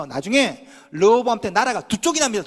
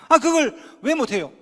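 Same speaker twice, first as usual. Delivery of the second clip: ordinary delivery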